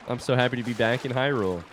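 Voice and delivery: tearful joy with a small laugh; happy tears. Real, not acted. Player so happy to be back in Hyrule, tearful. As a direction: choke up a little from happiness. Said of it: "I'm crying again".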